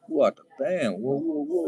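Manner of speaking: high, loud startled whoa; mock shock. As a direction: act shocked by the swearing. Imagined reaction at Met Gala.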